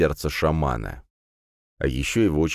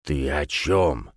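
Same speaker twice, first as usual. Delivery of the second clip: puzzled; much slower than usual. Acted. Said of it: "недоуменно скривился".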